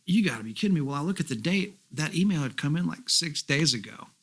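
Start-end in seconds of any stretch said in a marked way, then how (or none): 0.1-0.8 excited disbelief. Retold or imitated. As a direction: stretch it out in happy shock. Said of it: "so I'm going".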